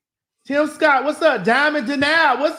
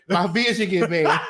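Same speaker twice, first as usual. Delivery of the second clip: laughing; 5 semitones lower than usual. Real, not acted.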